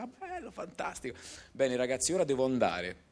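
high, cheerful, hurried goodbye; a light take on a bubbly diva; imitating a singer. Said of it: "lei contentissima, gentilissima".

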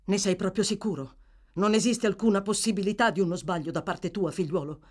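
a touch of anxious tremor; tremulous question. Acted. Gentleman checking privately with the boy, slightly tremulous. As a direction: ask again carefully, hardly daring to hope. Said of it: "con un tremito della voce".

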